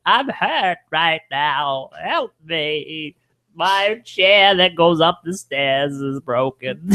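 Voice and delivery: put-on slow, frail old person voice; old people voice. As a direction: speak like a frail elderly person, very slowly. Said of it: "I'm doing the old people voice".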